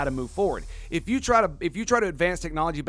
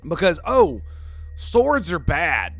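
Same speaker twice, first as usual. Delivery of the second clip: sarcastic, slow and louder; mocking sarcasm; 2 semitones higher, 5 dB louder, slower than usual. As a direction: drag it out like a snob. Mocking modern judges.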